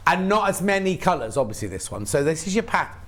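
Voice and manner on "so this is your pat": talking through hiccups. Real, not acted. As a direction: catch of a hiccup in the words. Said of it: "I've got the hiccups".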